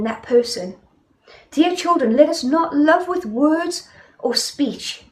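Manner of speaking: preacher reading the Bible aloud to the congregation; scripture reading. Acted. Reads scripture passage aloud.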